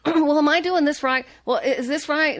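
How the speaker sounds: high-pitched eager student asking; high, fussy checking-in voice; imitated eager questioning. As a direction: play your younger self pestering a hero with questions. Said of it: "nitpicking and asking him all these questions".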